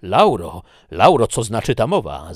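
loud, alarmed cry of her name; calling out. Acted. Ricardi cries out to Laura in alarm, loudly. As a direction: call her name, shaken and pleading. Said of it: "zawołał Ricardi".

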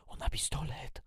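urgent, voiceless whisper. A narrator's reading. Girl to her sister about the armed man, whispered. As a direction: whisper a warning under your breath. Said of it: "szepnęłam".

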